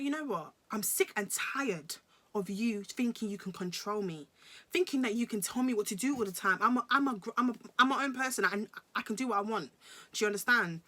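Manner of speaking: retold defiant outburst, rising in force; fed-up telling-off. Woman telling boyfriend he can't control her, retold fed-up.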